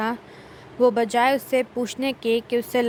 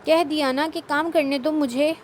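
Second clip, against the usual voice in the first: very angry; 3 semitones higher than usual. Acted. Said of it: "وہ نہایت غصے سے کہہ رہا تھا".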